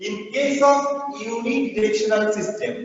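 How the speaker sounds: echoing in an empty hall; cathedral echo. Real, not acted. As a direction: voice bouncing round a bare room. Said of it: "actually খুব ইকো হচ্ছে".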